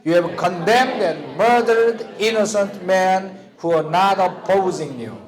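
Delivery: slow, even reading with the class; slow choral reading. Shown as a demonstration. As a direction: lead the class through it word by word. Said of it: "자, 읽어봅시다. 시작". (천천히 함께 읽기)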